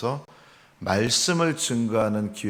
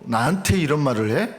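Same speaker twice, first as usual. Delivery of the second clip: mildly acted affront, pitched higher; retold anger; 4 semitones higher than usual. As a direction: imitate an offended, hot-tempered retort. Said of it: "혈기와 분노와".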